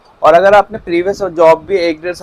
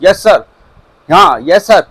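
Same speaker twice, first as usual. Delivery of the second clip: over-eager, louder yes sir; too loud; 2 semitones higher, 5 dB louder, slower than usual. Shown as a demonstration. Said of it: "आप बहुत तेज़ी बोलोगे".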